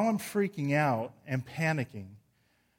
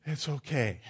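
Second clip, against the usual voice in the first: relieved self-talk; 5 dB louder than usual. Retold or imitated. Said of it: "you wake up and you go".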